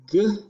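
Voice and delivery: "G-ong" as g, long pause, then ong; sounded out. Shown as a demonstration. Teacher repeating for dictation, "G-ong" pulled apart slowly. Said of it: "with ang, ing, ong".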